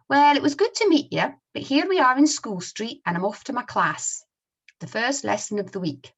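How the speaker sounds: put-on high, loud Scottish boy signing off; Scottish accent. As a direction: act it out with a Scots accent. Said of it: "I'll try my best to read them using the Scottish accent".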